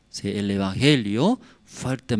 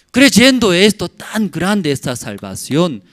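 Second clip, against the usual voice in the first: loud, raised preaching voice; exhortación enérgica; 5 semitones higher, 5 dB louder than usual. Real, not acted. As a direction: launch into a forceful exhortation. Predica exhortando con fuerza. (predicación fuerte y aguda)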